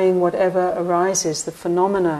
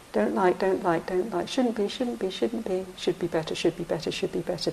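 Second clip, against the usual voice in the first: mind's grumbling chatter; 6 dB quieter than usual. Retold or imitated. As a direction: grumble it under your breath like the discontented mind. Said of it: "This is the mind".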